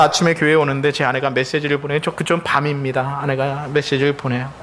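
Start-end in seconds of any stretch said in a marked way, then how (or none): none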